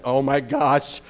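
bursting with doggy glee; excited dog. Pretend. Preacher voicing a dog hoping for dropped food, eager. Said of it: "and dog's like".

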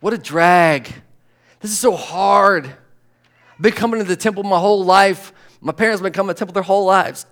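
a whiny, complaining churchgoer; mock whining congregant. A tired worshipper whining to the preacher in a mock complaint. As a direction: moan like someone bored of temple. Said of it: "You say".

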